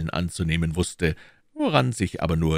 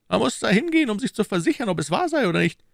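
higher, pressing questions as the Cardinal; Cardinal questioning; 3 dB louder, faster than usual. Acted. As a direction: interrogate his agent coolly. (der Kardinal, verhörend)

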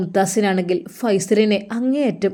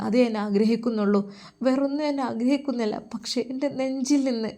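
put-on young man torn, pleading softly to God; a lightly voiced troubled lover, hushed; Faizal's anguished prayer; 3 semitones higher, 5 dB quieter than usual. Faizal alone in his room, praying, softly anguished. Faizal's tense night monologue.

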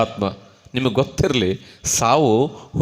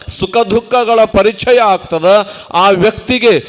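deliberate, sustained sermon oratory; fervent preaching; 6 semitones higher, 4 dB louder than usual. Real, not acted. Preacher describing the heart falling into worldly troubles, fervent oratory. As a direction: press each clause home to the congregation.

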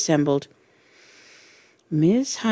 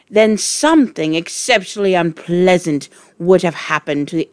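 loud, menacing headmistress; Trunchbull voice; 4 dB louder than usual. Acted. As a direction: threaten the whole class. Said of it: "she said".

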